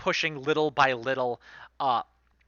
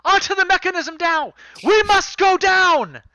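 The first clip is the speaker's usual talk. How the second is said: commanding shout; 9 dB louder than usual. Acted. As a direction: order everyone down the mechanism. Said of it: "and Blanchett says".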